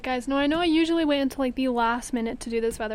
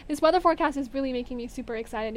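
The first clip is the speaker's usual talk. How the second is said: excited. Real, not acted. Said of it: "if you guys can't tell".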